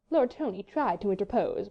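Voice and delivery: usual speaking voice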